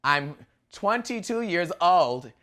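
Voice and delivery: stiff, slow, robotic delivery. Retold or imitated. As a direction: read it like a nervous robot. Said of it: "so robotic".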